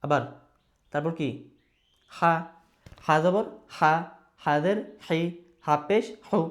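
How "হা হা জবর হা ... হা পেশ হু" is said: হা, হি, হু with a pressed, squeezed h; pressed Arabic ha. Shown as a demonstration. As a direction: press the throat on the h of "হা". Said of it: "একটু চাপ দিয়া". ("হা"-র হ একটু চাপ দিয়ে)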